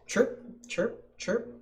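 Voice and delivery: high, short chirps; chirping frog call. A narrator's reading. Frog's call imitated in story.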